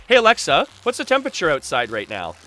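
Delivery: loud call to the room. Real, not acted. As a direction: call out to the device. Calling out to smart speaker.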